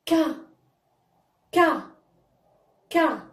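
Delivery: ك said as "ka"; fatha syllable. Shown as a demonstration. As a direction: model ك as one open syllable "ka", not the letter name. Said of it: "كيفاش غنطقوه؟".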